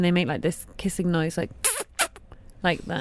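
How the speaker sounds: soft kissing squeak like a gecko; gecko kissing noise. Shown as a demonstration. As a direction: make the little gecko kiss sound. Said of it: "remarkably good gecko impression".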